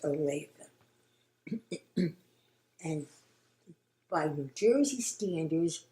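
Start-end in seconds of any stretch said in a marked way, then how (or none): 0.0-0.5 Olathe said as it is pronounced, not as spelled; place-name pronunciation. Shown as a demonstration. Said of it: "but it's pronounced".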